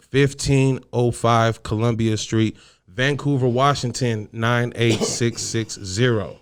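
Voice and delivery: winded from reading the ads; running out of air on the address; out of breath. Real, not acted. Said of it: "I'm always out of breath when I do that shit".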